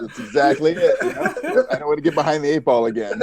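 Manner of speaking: laughing through the words, quick at the end. Real, not acted. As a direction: chuckle while admitting it. Laughing agreement after host's joke.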